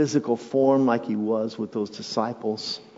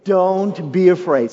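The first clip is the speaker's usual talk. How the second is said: higher and louder, building up; second call to the congregation, louder; louder repeat; 6 semitones higher, 7 dB louder than usual. Shown as a demonstration. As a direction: say it again with more push. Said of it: "Say it again".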